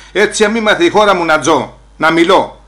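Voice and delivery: proud declaration. Retold or imitated. Proud speech about freedom.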